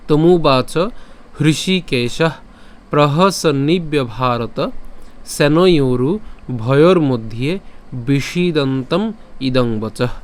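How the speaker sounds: slow, measured Sanskrit shloka recitation; verse recitation. Shown as a demonstration. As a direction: recite slowly, each phrase drawn out. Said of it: "সম্পূর্ণ শ্লোকটি আমি আরেকবার পাঠ করে বলছি".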